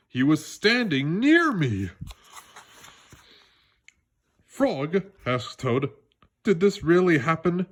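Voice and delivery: put-on lively read-aloud for children; animated children's book reading; story narration. A narrator's reading. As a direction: tell it like a bedtime story to kids.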